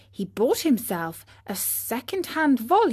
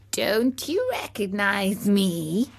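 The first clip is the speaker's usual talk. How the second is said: slow, strange snail voice; drawn-out creature call from the bushes; snail's voice; slower than usual. Acted. Snail calls out to Pinocchio, slow and strange. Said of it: "said the snail".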